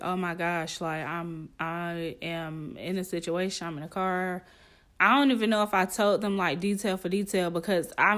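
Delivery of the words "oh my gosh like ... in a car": lower, subdued retelling of a panicked text; quietly recounted alarm; retold anxious texting. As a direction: read out your worried text softly. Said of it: "I'm texting my friends like".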